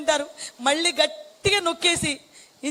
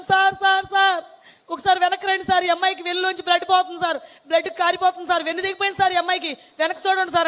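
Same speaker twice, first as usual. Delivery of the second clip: urgent calling out; 4 semitones higher than usual. Retold or imitated. Nurse calling the doctor back over bleeding, urgent raised calls. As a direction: call sir sir sir, alarmed and urgent.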